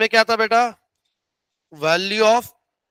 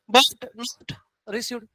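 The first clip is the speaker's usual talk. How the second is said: slow emphasis; 5 dB quieter, much slower than usual. Shown as a demonstration. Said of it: "income earn".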